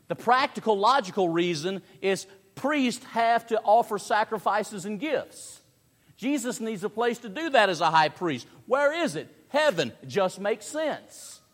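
high, energetic pulpit reasoning; emphatic preaching. Real, not acted. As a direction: press the argument home with energy.

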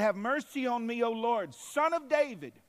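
loud, high desperate plea; a mother crying to Jesus for her daughter. Acted. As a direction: call out to the Lord for mercy.

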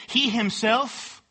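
HE HIMSELF drawn out slowly; emphatic. Shown as a demonstration. Preacher pointing out the wording in James, HE HIMSELF drawn out emphatically. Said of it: "it's emphatic".

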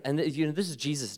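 normal talking voice

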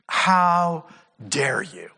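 slow, drawn-out indignant "How dare you?"; low and indignant, stretching out "How dare you?"; mock outrage, "How dare you?" drawn out slowly. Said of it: "he is indignant".

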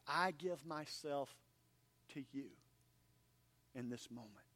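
soft, hushed prayer fading away; quiet prayer. Acted. Pastor voicing a prayer to God, hushed and reverent. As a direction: pray it gently, slowing toward the end. Prays aloud quoting Nehemiah.

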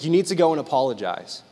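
low, calm retold advice. Grandmother sending grandchild to apologize, calm. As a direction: say it gently, as retold. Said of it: "and really calmly".

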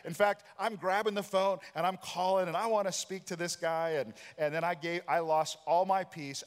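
mock-angry recap of losing his temper; heated retelling. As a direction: relive the flare-up with rising heat. Retelling his angry phone call.

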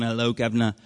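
lightly mocked Cockney British greeting; British accent. Host complaining guest gave no sample, mock British accent. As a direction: drop in a brief British accent. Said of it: "British, not New Zealand".

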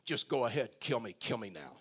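low, sinking mock despair; whiny voice. Preacher reading Moses begging the Lord, in a defeated whine. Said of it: "read this in a whiny voice".

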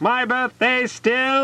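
surprised. Acted. Eeyore amazed at birthday.

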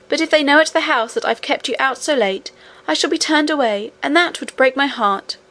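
a touch of pleading worry; lightly voiced worried nurse. Nurse fears being turned away, mildly distressed.

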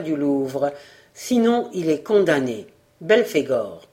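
low, measured letter reading; reading a threatening letter. Acted. Journalist reads a warning letter signed Belphégor, low and ominous.

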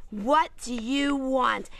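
slow, mock-exasperated demand; so mad. Girl tells duck joke on air, slow mock-mad clerk. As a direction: draw it out like a fed-up clerk. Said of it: "He's so mad".

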